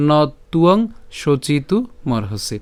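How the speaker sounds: slow, measured close of a shloka; careful chant-like reading with pauses; verse recitation. Shown as a demonstration. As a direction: recite deliberately, settling at the end. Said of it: "আবার যদি প্রথম থেকে বলি".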